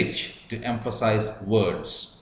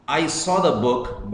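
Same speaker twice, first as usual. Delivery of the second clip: "saw" raised and stressed, contrasting it with taking; 4 semitones higher than usual. Shown as a demonstration. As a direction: lean on "saw" in "I saw the book". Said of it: "Here it means".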